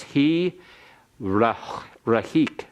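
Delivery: "rahik" with a short spoken schwa after the r; "he rahik", the schwa clearly spoken; vocal schwa. Shown as a demonstration. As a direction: sound the schwa in "rahik" as a quick vowel. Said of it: "That makes the schwa that follows it vocal".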